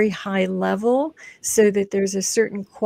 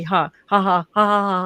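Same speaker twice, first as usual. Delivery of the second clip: laughter yoga ha; 5 dB louder than usual. Shown as a demonstration. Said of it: "repeat after me".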